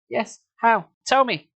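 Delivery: high, urgent pleading; high eager plea. Acted. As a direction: beg him to tell her. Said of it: "she pleaded".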